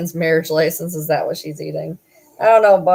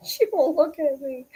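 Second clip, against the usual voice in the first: high laughing whine; 9 semitones higher than usual. Real, not acted. Laughing complaint about dog.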